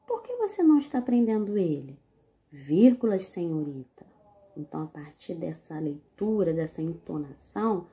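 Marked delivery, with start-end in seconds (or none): 0.1-2.0 indignant question. Shown as a demonstration. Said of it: "Vou ler novamente". 2.5-4.1 policeman voice. Shown as a demonstration. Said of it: "Vou ler novamente".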